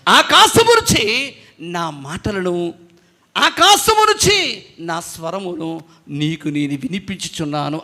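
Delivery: slow, measured voice of God from the sky; God speaking. Retold or imitated. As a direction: speak slowly as a voice from heaven. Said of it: "అన్నాడు".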